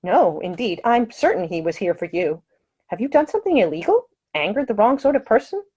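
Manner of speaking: a proper lady, lightly voiced, scolding; high-voiced prim woman, firm and offended; indignant lady. Woman questions Nick.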